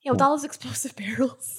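unvoiced sarcastic whisper; whispered aside. Real, not acted. Jab at the DM's explosive barrels, whispered. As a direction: whisper it as a dry joke.

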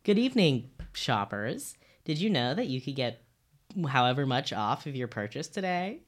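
bright store announcement read; customer service voice. Shown as a demonstration. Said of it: "let me do an announcement".

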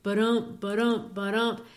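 ba-dump said like a steady heartbeat, stress on the dump; heartbeat rhythm. Shown as a demonstration. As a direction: beat out ba-dump, ba-dump like a pulse. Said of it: "the beating of the human heart".

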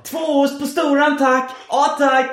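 high, loud hurried Stockholm order call; Stockholm accent. Retold or imitated. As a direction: shout the order in Stockholm Swedish. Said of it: "De pratar stockholmska där".

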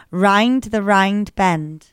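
"rind the rind bend" in a Northern Irish accent. Shown as a demonstration. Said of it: "in a Northern Irish accent".

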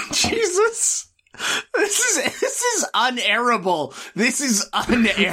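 high, nearly crying with laughter; helpless hilarity. Real, not acted. Host despairing over a ruined episode, high tearful hilarity. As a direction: squeeze it out high, losing composure. Cracking up over drunken recording.

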